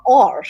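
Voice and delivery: r said as the English letter, tongue curled. Shown as a demonstration. Moving on from French to English, English-style "r". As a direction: open the mouth and curl the tongue for "r". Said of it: "then you come to English".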